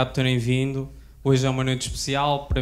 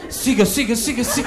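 put-on old man voice; 7 semitones higher, 4 dB louder than usual.

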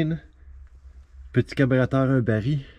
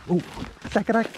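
surprised; 11 semitones higher than usual. Real, not acted. Ice cracking underfoot.

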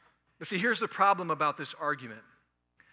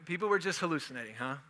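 mocking; 4 dB quieter, faster than usual. Shown as a demonstration.

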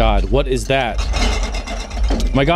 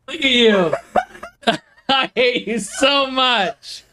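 laughing; 5 semitones higher than usual. Real, not acted. Laughing after being scared.

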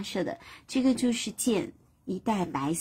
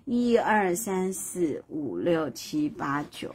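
slow counting; 4 semitones lower, 3 dB quieter, much slower than usual. Acted. Suns counting themselves.

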